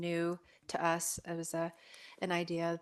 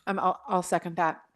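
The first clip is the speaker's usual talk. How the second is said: talking through a bite of cookie; words round a mouthful of cookie; mouth full; 6 dB louder than usual. Real, not acted. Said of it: "Got a bit of cookie".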